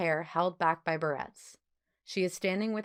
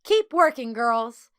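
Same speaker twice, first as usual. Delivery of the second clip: loud, much higher yell over her shoulder; 5 semitones higher, 9 dB louder, slower than usual. A narrator's reading. Overseer calling back to the girls while leaving, loud yell. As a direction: call it out across the room. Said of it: "she yelled".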